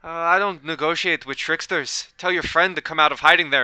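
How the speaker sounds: a hint of improvised Irish or British lilt; British or Irish accent. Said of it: "that's his accent now".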